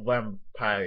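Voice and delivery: "vampire," slow, with weight on both parts; heavy emphasis. Shown as a demonstration. Showing how to play a vampire, "vampire," slow and emphatic. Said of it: "Gotta put a lot of emphasis".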